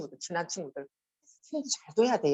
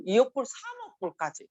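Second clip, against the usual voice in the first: usual speaking voice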